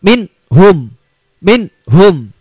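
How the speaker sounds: min hum with the n short and sharp; crisp min hum, no nasal hold; clear izhar. Shown as a demonstration. Teacher showing students the clear reading, crisp.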